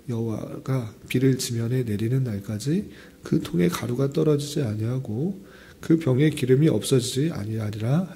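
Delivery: normal talking voice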